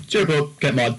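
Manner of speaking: mock thick Eastern European accent. Imagining a dude quitting the mod, sick Eastern European accent. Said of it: "Eastern European accent saying".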